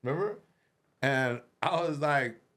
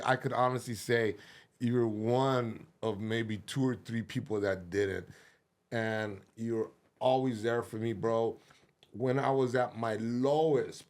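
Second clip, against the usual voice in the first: heartfelt thanks; 6 semitones lower than usual. Real, not acted. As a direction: speak from the heart. Sincere thanks to friend.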